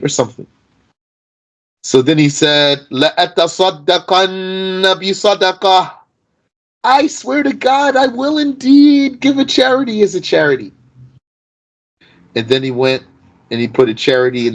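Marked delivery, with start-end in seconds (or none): 2.9-10.7 high, raised voice of a man swearing an oath; earnest vow. Retold or imitated. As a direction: swear it solemnly, pitched up high. Man vowing again in hadith.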